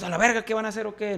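high, heated retort to the gunman; angry challenge. Retold or imitated. Musician heated after his friend gets hit, angry challenge. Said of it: "me calenté".

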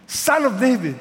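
loud, high desperate plea; crying out loud. Acted. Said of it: "he kept crying out all the more".

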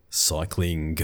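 cycling slow, with a hard G sounded at the end; Scouse hard G. Shown as a demonstration. Demonstrating a Liverpool friend's hard G on cycling. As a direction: say cycling with a clear G after the ng. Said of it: "he puts a hard G at the end of ing words".

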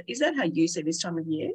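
ordinary delivery

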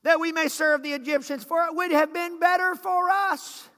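mock complaint.

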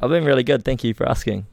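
robotic. Pretend. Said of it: "It sounded so robotic again".

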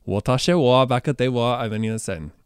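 clumsy Japanese, anglicized; bad Japanese accent. Shown as a demonstration. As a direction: say Japanese badly, English vowels. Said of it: "I know I say this badly".

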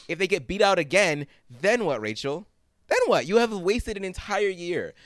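high, pressing scold at Rachel; worked-up lecture to a character who can't hear you; exasperated rant. Real, not acted. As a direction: really lay into her, incredulous. Ranting at Rachel over Finn.

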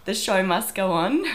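hoarse sick voice; talking through a heavy cold. Real, not acted. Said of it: "I apologize for the sick voice".

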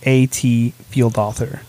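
A T spelled letter by letter, slowly. Shown as a demonstration. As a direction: spell A T, then say Field. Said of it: "It's B H".

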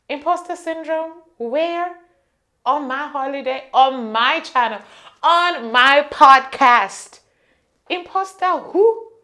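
high, loud sassy scoff; sassy disbelief. Pretend. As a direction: scoff at the idea dramatically.

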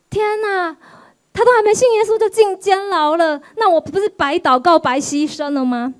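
high, startled complaint to God; a shocked little wail of disbelief; dismayed cry. Retold or imitated. Retold dismayed prayer to God.

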